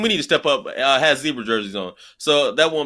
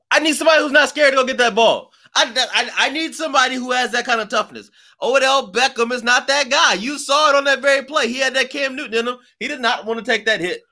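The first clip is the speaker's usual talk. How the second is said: wrestling promo; 9 semitones higher than usual. Real, not acted. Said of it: "accent or excitement or whatever in his voice".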